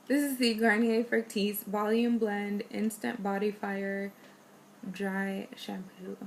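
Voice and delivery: pushy, hyped-up product name; overdone announcer read. Shown as a demonstration. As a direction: oversell it like an ad. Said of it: "That was, like, too much".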